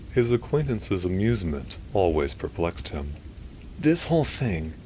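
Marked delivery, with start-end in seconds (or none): 3.8-4.7 high nasally inquiry; Milton. A narrator's reading. Perplexed doctor questioning the priest, nasally. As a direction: query it in a would-be British voice. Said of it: "Milton inquired".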